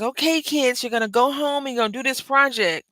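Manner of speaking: high, lilting schoolteacher voice; cartoon teacher. Peppa Pig teacher setting homework, high teacher voice. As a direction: address the class like a cartoon teacher. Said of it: "the teacher is a gazelle".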